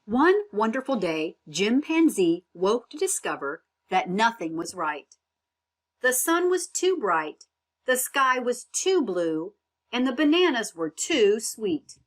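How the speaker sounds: put-on children's book narration, gently paced; storybook reading. A narrator's reading. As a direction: read it like bedtime to a young listener. Reads the story aloud.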